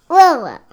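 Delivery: small loud lion cub roar; a little cub's roar, loud; baby roar. Pretend. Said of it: "No, that was a baby roar".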